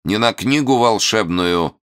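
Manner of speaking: loud, high sharp rebuke; shouting. Acted. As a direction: snap at the peasants. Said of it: "прикрикнул он на мужиков".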